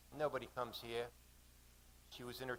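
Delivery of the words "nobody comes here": put-on understated Australian accent; soft-edged Aussie character line. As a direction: lightly voice the Aussie woman. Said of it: "she said in an Aussie accent".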